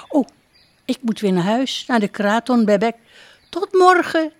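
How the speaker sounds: hurrying home; princess calling. Acted.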